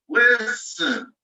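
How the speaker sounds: Listen with the first syllable leaned on; stress on LIS. Shown as a demonstration. Teacher showing students the stress, first syllable stressed. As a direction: hit LIS in Listen, let ten fall away. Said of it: "the first syllable of listen is stressed".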